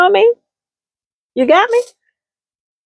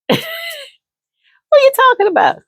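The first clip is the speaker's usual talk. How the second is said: higher voice, defensive; playing the other woman; faster than usual. Defending her man to a friend, higher pitched. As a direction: push back at the gossip. Girl pushes back.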